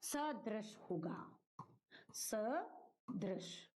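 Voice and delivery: sadrish slowly, short sa and no ya ending; slow, careful sadrish ending on sh; alternative form sadrish. Shown as a demonstration. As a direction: spell out sadrish by ear, sa then drish. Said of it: "या फिर".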